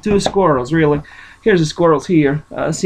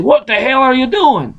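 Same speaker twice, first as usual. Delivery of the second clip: a sharp, higher mock outburst of anger; huffing mad; 6 semitones higher than usual. Grandfather scolding his daughter for picking apples, mock angry and high. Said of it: "Judd Moore got so huffing mad".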